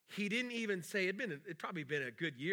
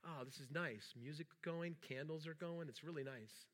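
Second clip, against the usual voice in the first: relaxed contentment; 7 dB quieter than usual. Retold or imitated. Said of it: "like, really relaxed".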